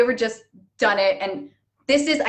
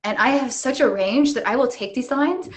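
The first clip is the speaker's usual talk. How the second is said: mock grand actor. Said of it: "I'm an actor".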